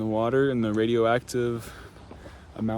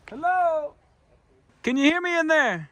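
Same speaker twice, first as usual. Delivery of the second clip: high, loud call into the hole; calling down a hallway; 4 dB louder than usual. Real, not acted. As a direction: call out into the echo.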